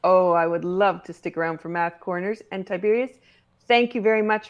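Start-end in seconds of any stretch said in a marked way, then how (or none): none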